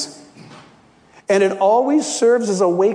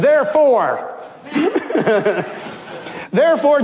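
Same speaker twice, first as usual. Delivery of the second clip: demanding; 8 semitones higher than usual. Acted. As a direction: order him to make her help, indignant. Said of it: "She's not asking for help. She's telling".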